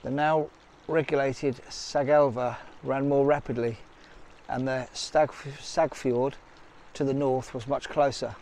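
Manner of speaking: measured documentary-style read; voice-over narration. Acted. Vlogger explaining ancient carvings to viewers, measured narration. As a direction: read it out like a guide's commentary. Reads out a description of ancient figures.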